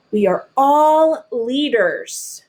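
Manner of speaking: proud slogan. Acted. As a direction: proclaim it like a rallying cry. Proclaiming the SNCC slogan.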